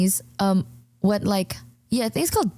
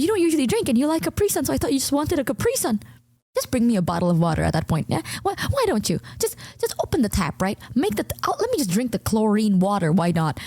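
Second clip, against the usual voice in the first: sarcastic retort; 3 semitones higher than usual. Retold or imitated. Mocking roommate's excuse, retold argument.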